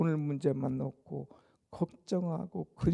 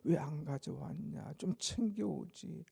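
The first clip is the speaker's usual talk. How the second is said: grumbling under breath; 6 dB quieter than usual. Acted. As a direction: grumble it quietly at a friend. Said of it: "서로가 눈치 주며".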